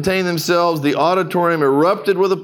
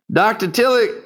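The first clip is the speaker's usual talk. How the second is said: put-on old preacher voice; 6 semitones higher than usual. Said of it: "an old dark-skinned preacher".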